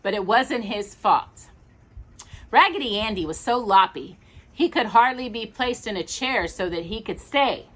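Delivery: gentle storybook reading; reading to children. Acted. Parent reading a bedtime story, gentle storybook voice. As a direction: tell the tale to a small listener.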